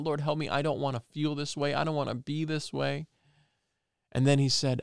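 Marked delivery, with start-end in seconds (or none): 0.0-3.1 higher, pleading prayer to the Lord; crying out. Retold or imitated. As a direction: plead upward, desperate for help. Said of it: "I'm crying out".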